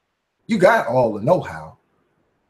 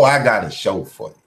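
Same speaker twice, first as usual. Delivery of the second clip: normal talking voice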